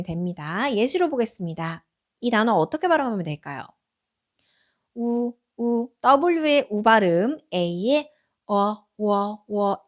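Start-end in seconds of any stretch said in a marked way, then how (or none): 4.9-9.8 우 and 어 drawn out into 워; slow letter sounds. Shown as a demonstration. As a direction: round the lips for 우 then glide to 워. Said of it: "A는 워 발음도". (입술을 내밀고 우에서 워로)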